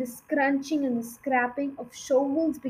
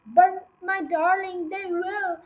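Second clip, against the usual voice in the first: higher, lightly tearful pleading; mild mock sob; 6 semitones higher than usual. A narrator's reading. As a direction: plead with a touch of tears. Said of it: "sobbed Missus Fox".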